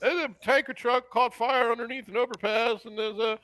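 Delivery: traffic reporter. Pretend. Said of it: "Ian Mitchell in the Intercot traffic copter".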